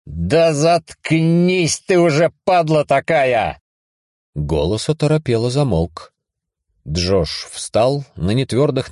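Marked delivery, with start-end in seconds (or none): 0.1-3.6 higher, slow furious yell; snapping at a voice in his head; angry yell. Acted. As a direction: tell him off, drawn out. Yelling at the voice.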